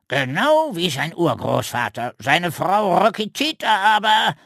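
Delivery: lightly voiced boastful raven. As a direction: show off the family history. Raven telling family story.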